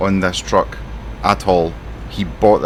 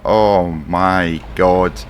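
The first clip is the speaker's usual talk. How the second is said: exasperated; much slower than usual. Real, not acted. Exasperated at his boss.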